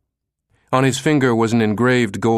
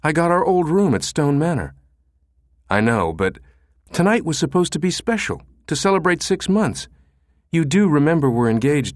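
hurt; 7 semitones higher than usual. Acted. Fiancee hurt by cancelled trip.

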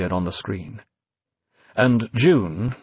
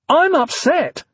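high, loud near-hysterical cry; cried out; 5 dB louder, slower than usual. A narrator's reading. Evie, panicking, throws V's words back at him. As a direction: fling the word back in panic. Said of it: "she cried".

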